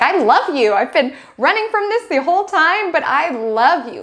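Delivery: lightly hammed-up high love confession; heartfelt confession. Character letting the guard down to the loved one, mock heartfelt. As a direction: confess like a movie lead finally dropping the guard. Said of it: "be like".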